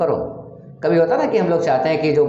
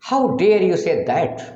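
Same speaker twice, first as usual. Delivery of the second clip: 1 slow demo; 4 semitones higher, much slower than usual. Shown as a demonstration. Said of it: "teacher demonstrates English sentence".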